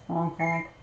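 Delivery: lightly imitated goose; a hint of goose in two short honks. Shown as a demonstration. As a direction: honk like a goose to teach a pet. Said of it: "Remember goose?".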